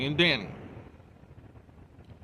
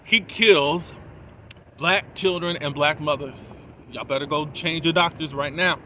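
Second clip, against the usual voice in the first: mildly raised retold announcement; retold public warning, a bit louder at the start; public denunciation; 5 dB louder than usual. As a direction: lightly imitate announcing it to a whole hospital. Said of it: "she announces to the whole hospital".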